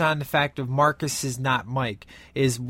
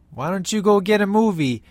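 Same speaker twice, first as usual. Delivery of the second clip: higher-pitched mock teasing; 6 semitones higher, 4 dB louder than usual. Mike messing with Marcus after the phone call, retold teasing. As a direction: lightly needle him, pitched up. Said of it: "he starts to mess with".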